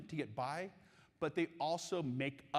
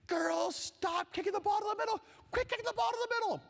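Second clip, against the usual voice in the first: high, loud sideline yell; coach screaming; 4 dB louder than usual. Retold or imitated. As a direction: yell it down the field like a frantic coach. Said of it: "running up and down the sideline screaming".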